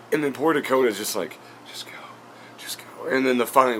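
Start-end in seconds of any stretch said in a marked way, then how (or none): 1.7-3.1 hushed, breath-only plea; urgent whisper. Retold or imitated. Vlogger imitating his worried crew mate urging him to leave, whispered. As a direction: whisper it under your breath, urging escape.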